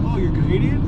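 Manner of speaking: mock surprised question. Travelers retelling strangers guessing their nationality, mock surprise. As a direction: mimic someone guessing, pitch climbing on the question.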